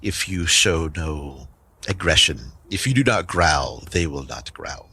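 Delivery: measured, lightly voiced wolf; a hint of wolf, falling away at the end; talking wolf. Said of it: "say to the wolf".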